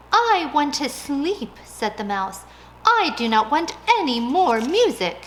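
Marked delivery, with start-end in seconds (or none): 0.1-1.6 pleading mouse. Acted. 2.9-5.2 protesting mouse. Acted.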